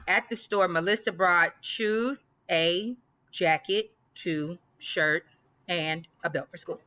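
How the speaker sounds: slow, careful read with rising list tune; deliberate test-option reading. Shown as a demonstration. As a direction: read it out, pausing on each comma. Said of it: "which one is correct".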